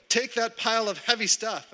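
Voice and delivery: high-pitched imitation of a foreman; bossy order. Boss sending laborer to work, bossy order.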